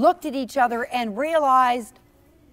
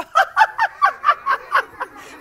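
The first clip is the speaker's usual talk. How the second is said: high peal of laughter; 5 dB louder than usual. Acted. Acting out peals of laughter.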